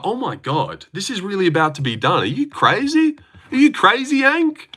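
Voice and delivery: half-joking disbelief at the knockout; shocked reaction. Retold or imitated. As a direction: relive the shock of the finish. Retelling own reaction to knockout.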